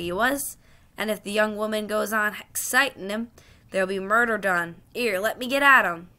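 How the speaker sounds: Cockney cabman vouching for his horse; urgent cabby. Acted.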